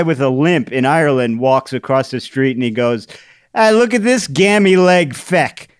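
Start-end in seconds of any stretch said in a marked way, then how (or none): 3.5-5.7 high, loud mock-Irish jeer; hammed-up Irish grumbling; Irish grandfather. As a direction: heckle in a put-on Irish brogue. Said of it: "my Irish grandfather".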